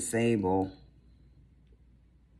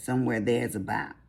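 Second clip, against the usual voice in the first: country accent on "Somewhere there's about". Shown as a demonstration. Vlogger showing her country voice, lightly put-on country accent. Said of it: "That's my country voice".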